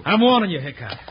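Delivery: threat. Acted. Rancher threatens marshal.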